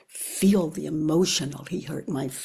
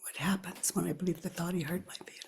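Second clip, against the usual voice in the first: hushed breathy inquiry; whispered question; 12 dB quieter, faster than usual. Shown as a demonstration. Teacher guiding the inquiry, whispered softly. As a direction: whisper it to yourself. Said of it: "inquiry question whispered".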